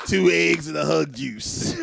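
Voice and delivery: slow laughing shouted line. Pretend. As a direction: blurt it out mid-laugh.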